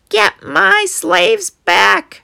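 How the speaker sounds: piercing, very high, shrill, rough screech. Reading a story aloud, the narrator voices the Pharaoh ordering his slaves back; screeching. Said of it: "he screeched".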